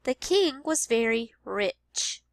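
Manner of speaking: slowed The king was very rich; slow teacher read-aloud; slow modeled sentence. Shown as a demonstration. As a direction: repeat slowly. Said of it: "listening for the ch sound".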